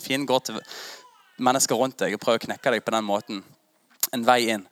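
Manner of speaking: tearful, near crying; voice breaking. Real, not acted. Preacher tells how enemies go through your friends, voice breaking. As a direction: let the voice crack with emotion.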